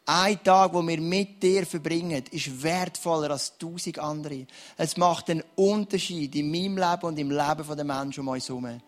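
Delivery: earnest spoken prayer over the room. Real, not acted. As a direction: pray earnestly for the dry ones. Pastor prays over congregation.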